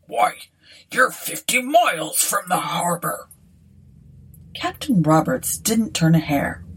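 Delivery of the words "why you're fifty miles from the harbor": mild rustic disbelief; lightly voiced incredulous innkeeper; astonished landlord. A narrator's reading. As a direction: protest in surprise as a country landlord. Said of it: "cried the landlord".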